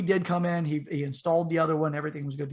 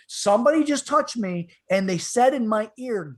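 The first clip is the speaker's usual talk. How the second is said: imitating a spooked man, higher and louder; agitated, raised-voice retelling of a fright; freaking out; 5 semitones higher, 5 dB louder than usual. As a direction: blurt it out in alarm. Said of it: "he's freaking out".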